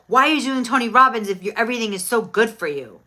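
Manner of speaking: fast, loud mock indignation; imitating an annoyed woman, quick and loud; mad. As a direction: fire it back at her, offended and fast.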